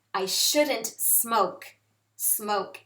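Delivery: slow example sentence. Shown as a demonstration. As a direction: say it slowly for learners.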